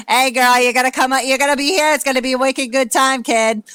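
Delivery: lightly mock a rowdy Boston townie; John. Brother yells to the girlfriend from the background, rowdy. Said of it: "John's just in the background, just yelling".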